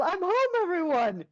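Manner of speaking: lightly acted call to a crowd; mock homecoming yell. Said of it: "he's about to yell".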